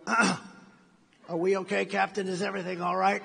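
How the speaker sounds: very slow, strained nervous question; mock nervous choking. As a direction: play a passenger trying not to panic. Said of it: "talk about choking".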